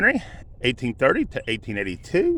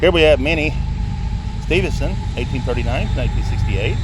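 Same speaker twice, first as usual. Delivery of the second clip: louder over the passing train; talking over a train; 7 dB louder than usual. Real, not acted. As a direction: raise the voice over train noise. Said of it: "Sorry about the train, guys, that you're fixing to hear".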